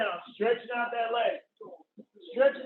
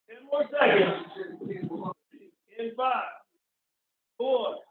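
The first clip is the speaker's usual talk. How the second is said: barking gym coach. Real, not acted. Coach calling out.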